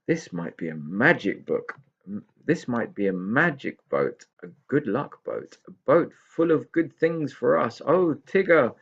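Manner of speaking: builds from plain to high eager cry; growing excitement. Acted. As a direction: let wonder build to a cry. Pixie excited by magic boat.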